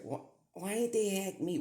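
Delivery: high, loud, wailed question; re-enacted bafflement. Man recalling his reaction on TikTok, baffled. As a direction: wail the question in mock disbelief.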